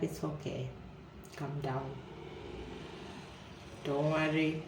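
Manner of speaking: quiet, gentle "calm down"; soft reassurance. Retold or imitated. Friend soothing her, softly reassuring. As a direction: hush him soothingly.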